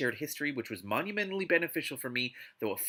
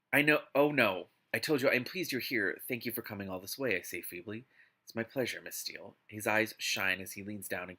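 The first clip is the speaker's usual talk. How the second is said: story narration; 3 semitones lower than usual. Acted. Reads the novel aloud.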